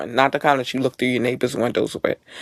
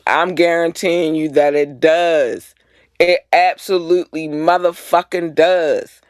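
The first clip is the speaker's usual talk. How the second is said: slow whispered emphasis; hushed, deliberate emphatic warning; slow, emphatic guarantee; 3 semitones higher, slower than usual. Real, not acted. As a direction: lean on each word to guarantee it. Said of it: "It says it may".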